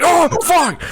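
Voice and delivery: sudden high yelp of shock; startled curse. Acted. Pilot startled by the giant Zeppelin, yelping. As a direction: jolt up into a shocked squeak. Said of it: "He's like".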